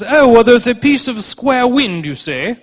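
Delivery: mock the learned doctor's theory; pompous scholar. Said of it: "educated hypothesis was".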